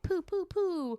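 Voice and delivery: high-pitched "poo, poo, poo" firing off; high cartoonish pew-pew noises; playful sound effect. Acting out brain firing off memories.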